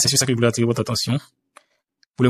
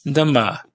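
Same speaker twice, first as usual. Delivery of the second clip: "Dama" echoed with weight on "ma"; final-syllable stress. Shown as a demonstration. Teacher echoes recording for learners, final stress on "Dama". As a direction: repeat "Dama" carefully, accenting its last syllable. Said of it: "Écoutez encore".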